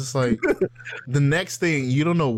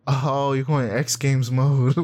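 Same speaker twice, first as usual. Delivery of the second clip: put-on meme kid voice; slower than usual. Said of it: "have you seen that meme".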